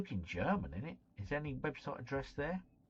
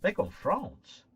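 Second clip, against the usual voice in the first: louder, higher, slow disbelief; surprised outburst; 6 semitones higher, 7 dB louder, slower than usual. Real, not acted. Reacting to his opponent's guess, he blurts out surprised. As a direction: stretch it out in shock.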